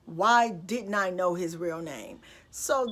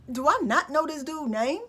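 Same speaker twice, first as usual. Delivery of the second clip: higher, louder baffled disbelief; perplexed; 6 semitones higher, 4 dB louder than usual. Retold or imitated. Girlfriend realizing she never knew his name. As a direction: wonder aloud, thrown and confused. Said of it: "So I'm looking so perplexed".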